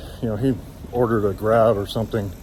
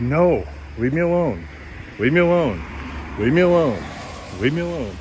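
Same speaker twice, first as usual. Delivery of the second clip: rising retold refusal; 4 semitones higher than usual. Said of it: "I just kept getting louder".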